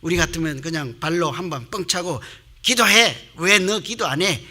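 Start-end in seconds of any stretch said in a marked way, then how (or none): 2.6-4.4 loud, raised mock telling-off; mock scolding. Preacher imagining kicking the sleeping Jonah, mock scolding. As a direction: scold a sleeper in pretend outrage. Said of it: "이렇게 야단칠 거 아니에요".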